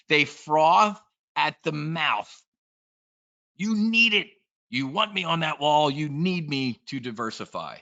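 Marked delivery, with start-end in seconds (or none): 3.6-7.8 high, pushy, hammed-up insistence; mock pushy salesman. Parodying brokers frothing at the mouth over diversification, hammed-up. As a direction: sell it like a frothing pitchman.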